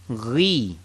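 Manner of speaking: "Ghi" low and gargled; ghain demo. Shown as a demonstration. Teacher models ghain for students to repeat. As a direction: gargle "Ghi" deep in the throat. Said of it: "Say it with me".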